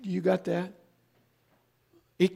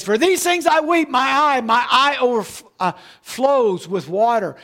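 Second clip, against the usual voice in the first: higher, lamenting read of the prophet's grief; a touch of the weeping prophet's sorrow, pitched up; mournful lament; 4 semitones higher, 4 dB louder than usual. Acted. Preacher voicing Jeremiah's grief to the congregation, mournful.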